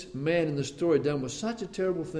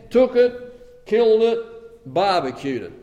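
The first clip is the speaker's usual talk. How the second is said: indignant; 4 semitones higher, 8 dB louder, slower than usual. Acted. Angry retelling of the theft.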